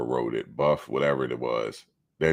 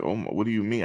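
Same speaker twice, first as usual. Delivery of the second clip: mock shocked lady; 6 semitones higher, faster than usual. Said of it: "She said".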